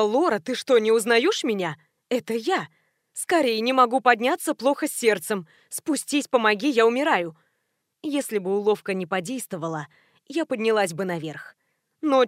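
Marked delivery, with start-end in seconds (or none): none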